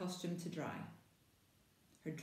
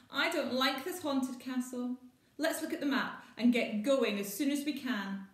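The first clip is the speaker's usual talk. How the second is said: higher, louder worried plea; uneasy child; 6 semitones higher, 7 dB louder than usual. Acted. Maggie wanting to flee the haunted castle, worried. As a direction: beg to leave now.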